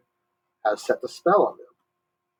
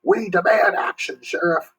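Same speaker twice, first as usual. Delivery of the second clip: booming; 9 semitones higher than usual. A narrator's reading. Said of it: "Hardboard boomed".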